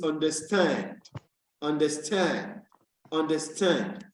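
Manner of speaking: understand with STAND held long, then falling; stress on STAND. Shown as a demonstration. Teacher models word stress for class, stressed STAND in understand. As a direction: lean on the last syllable, STAND, in understand. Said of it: "The accent will be on stand".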